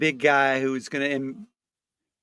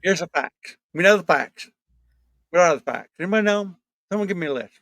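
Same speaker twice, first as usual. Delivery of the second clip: halftime pep speech; 4 semitones higher than usual. Pretend. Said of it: "let's do Jim Jordan".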